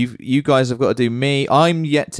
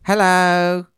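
a higher put-on voice of a colleague; impression of Rob; 7 semitones higher than usual. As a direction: do your mate Rob. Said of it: "you gotta start with Rob".

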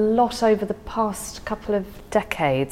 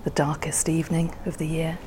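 poem recital. Acted. Poet reciting Frost to the interviewer, gently.

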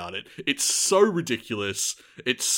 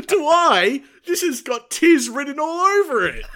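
much higher and louder, laughing through it; laughing denial; 13 semitones higher, 7 dB louder than usual. Real, not acted. Host laughing off a fan's accusation, laughing.

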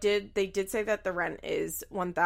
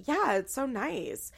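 higher, slow drawn-out approval; mock encouraging; 5 semitones higher, slower than usual. Mimicking mom and friend at the townhouse, encouraging. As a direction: imitate encouraging onlookers, pitched up and stretched.

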